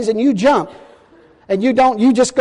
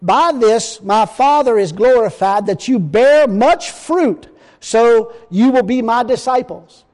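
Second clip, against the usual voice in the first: solemn preacher reading scripture. Acted. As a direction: read the verse with weight, slowing at the end.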